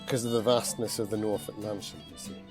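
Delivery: slips into a northern English accent; accidental northern English lilt. Real, not acted. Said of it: "Oh, I've gone northern".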